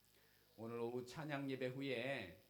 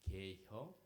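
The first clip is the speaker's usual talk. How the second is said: lightly done Chungcheong accent, short and clipped; a hint of a drawled Chungcheong question; 4 semitones lower, much slower than usual. Shown as a demonstration. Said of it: "충청도 사람들이 ... 어떻게 이야기하는지". (충청도 사투리로 짧게 묻기)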